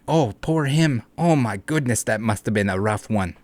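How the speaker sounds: reading the excuse, softly sarcastic mock pity; mock sympathy. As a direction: fake sympathy for the scammer.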